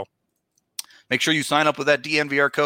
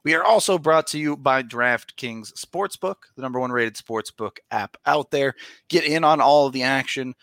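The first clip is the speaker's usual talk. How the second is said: upbeat sponsor read. Acted. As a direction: pitch it like a podcast ad. Reads sponsor ad.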